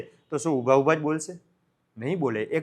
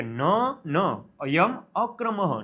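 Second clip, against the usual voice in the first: catching himself mid-greeting; slower than usual. Acted. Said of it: "આટલું બોલીને અટકી ગયો".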